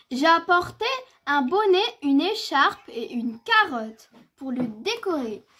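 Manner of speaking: mild cheerful announcement; lightly voiced mother bear. Mother bear bringing things for the snowman, lightly acted and cheerful.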